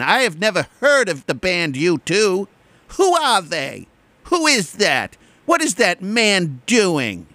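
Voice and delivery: clueless youngster. Retold or imitated.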